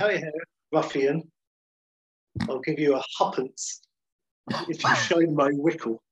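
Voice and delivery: lightly voiced Surrey toff; a hint of a lisping toff tossing a coin; posh toff. Toff on horseback to a chimney sweep, lightly posh. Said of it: "on my horse from my Surrey estate".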